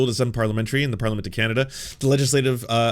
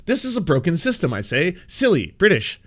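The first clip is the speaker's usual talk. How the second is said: mock British; 4 semitones higher than usual. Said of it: "This is so fucking British".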